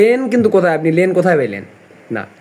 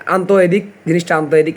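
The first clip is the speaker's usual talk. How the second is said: rustic Bangla; much faster than usual. Retold or imitated. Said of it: "বলি গ্রাম্য ভাষায়".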